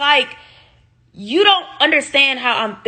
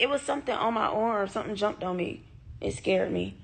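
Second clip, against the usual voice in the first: startled; 10 dB quieter, faster than usual. Real, not acted. Bug jumped on her arm.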